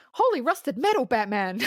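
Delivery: lightly voiced eager sidekick catchphrase; campy sidekick exclamation, lightly done; Robin. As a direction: pitch it up high, then drop back on the last word. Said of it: "and Robin goes".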